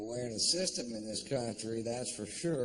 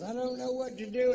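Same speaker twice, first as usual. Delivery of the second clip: higher, fast panicked mother; mock a mother in a flap, quick and pitched up; 12 semitones higher, 4 dB louder, faster than usual. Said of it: "what to say to my mother".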